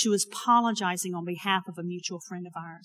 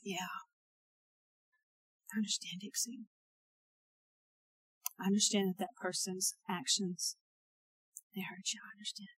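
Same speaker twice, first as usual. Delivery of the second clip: softer, tender and understanding; a gentle, quieter voice of the Spirit; 5 dB quieter than usual. Retold or imitated. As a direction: speak softly like comforting a hurt child. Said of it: "the gentleness of the Holy Spirit spoke".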